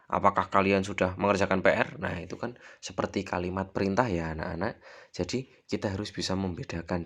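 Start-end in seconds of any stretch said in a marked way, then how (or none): 0.1-2.0 "Apakah kalian sudah mengerjakan P R?" barked loud and fast like an order; bossy wrong question. Shown as a demonstration. Teacher showing pupils a question wrongly said as an order, loud and fast. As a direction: fire the question off as a command. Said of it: "Tidak mungkin kalimat tanya".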